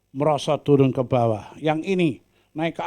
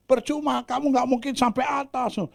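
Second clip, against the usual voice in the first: mock jeering frog; 11 semitones higher than usual. Frogs at top jeering.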